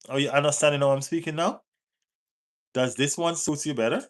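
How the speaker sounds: quick, light Jamaican accent; put-on Jamaican accent. Shown as a demonstration. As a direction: show off a Jamaican accent, a touch fast. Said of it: "what accent would you like me to put on right now".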